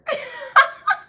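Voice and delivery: high, loud cackle; high burst of laughter. Real, not acted. Cracking up at a song lyric she heard. Laughing at her own quote.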